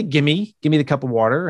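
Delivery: slurred "Gimme", then "give me the cup of water" as a quick ask; casual request. Shown as a demonstration. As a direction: toss off the request casually, words blended. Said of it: "if I say".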